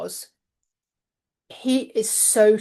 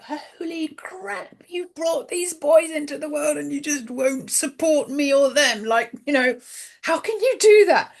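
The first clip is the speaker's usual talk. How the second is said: exasperated, higher-pitched outburst; acted indignant rant, rising in pitch; retold anger; 5 semitones higher than usual. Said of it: "I was angry".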